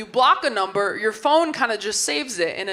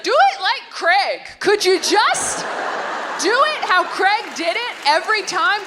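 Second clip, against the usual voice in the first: high pleading whine; 9 semitones higher than usual. Acted. Pleading thought about Craig.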